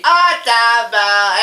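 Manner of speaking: ordinary talk, nothing marked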